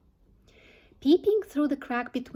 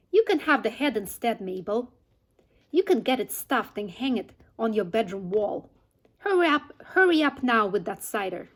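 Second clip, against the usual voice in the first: a lightly voiced, impatient Mrs Bean, louder; bossy farmer's wife; 4 dB louder than usual. Mrs Bean calling down to Mabel in the cellar, impatient and bossy. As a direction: snap orders down to the cellar, hurrying the maid.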